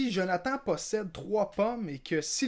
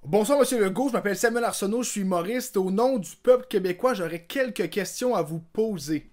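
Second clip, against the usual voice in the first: mock interviewer; 4 semitones higher, 4 dB louder, faster than usual. Comedian interviewing premier sketch.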